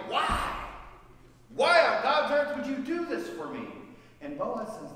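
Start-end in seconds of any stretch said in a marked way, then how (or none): 0.1-3.7 higher and louder, disbelieving; astonished plea. Acted. Ruth amazed asking Boaz why he helps her, high and loud. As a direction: cry out in amazement.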